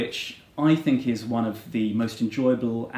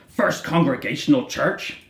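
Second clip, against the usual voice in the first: slow, disbelieving repeat with a rising tune; incredulous cry; 3 semitones higher, 5 dB louder, slower than usual. A narrator's reading. Bildad doubting Queequeg's church, slow incredulous cry. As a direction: echo it back in shock. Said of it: "cried Bildad".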